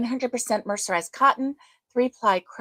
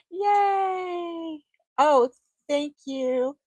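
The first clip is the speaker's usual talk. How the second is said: excited; 7 semitones higher, much slower than usual. Real, not acted. Cheering a kind viewer.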